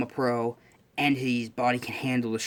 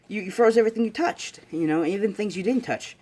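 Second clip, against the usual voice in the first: high-pitched impressed gushing; acted wide-eyed amazement; excited recounting; 8 semitones higher than usual. Classmate describing his freezing feat, excited.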